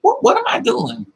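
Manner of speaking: high-pitched disbelief at herself; mock-shocked high squeak; incredulous self-question. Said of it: "I'm like".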